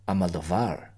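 Almodovar with a falling tune, a-MAL-do-var; settled Almodovar. Shown as a demonstration. Trying stress options on a director's name. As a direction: land Almodovar firmly. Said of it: "covered all my options there".

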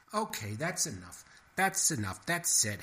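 a hint of a fast-talking mouse; Henry the mouse. A narrator's reading.

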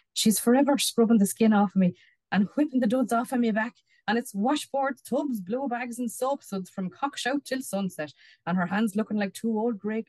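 high, aggrieved Irish grumble; complaining husband. Acted. Little man complaining to the children about his wife, aggrieved. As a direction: pile up the grievances.

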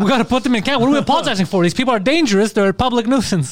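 high-pitched pretend rant; mock outrage. Comedian railing about the apology news for laughs, mock outraged. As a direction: build a hammed-up joking tirade.

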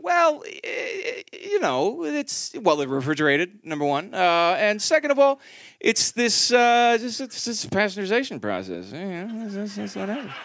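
high, hesitant made-up explanation; bluffing. Retold or imitated. Dad bluffing an egg explanation to his daughter, unsure. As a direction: fake confidence, stumbling.

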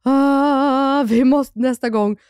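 loud, high mock groan of despair; hammed-up overwhelmed cry; exasperated parents. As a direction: act out a parent at wits' end. Acted exasperated parents amid kid chaos.

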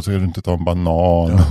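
mock gruff mum fussing over her son; low-voiced caring mother. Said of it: "den här kvinnliga omsorgen om sonen".

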